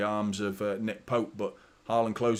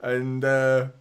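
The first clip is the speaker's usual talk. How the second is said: higher, louder, laughing at it; giddy higher louder retelling with a laugh; excited disbelief; 4 semitones higher, 4 dB louder than usual. Real, not acted. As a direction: laugh in amazement as you retell it. Disbelief at Ederson's back heel.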